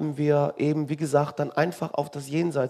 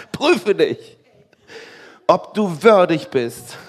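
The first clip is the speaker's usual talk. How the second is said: loud, higher, hammed-up admonition; mock stern exhortation; 3 semitones higher, 9 dB louder, slower than usual. Church asking if the communicant is worthy, mock stern. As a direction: thunder it slowly toward the end, as parody. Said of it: "auch da noch ist unsere Betonung".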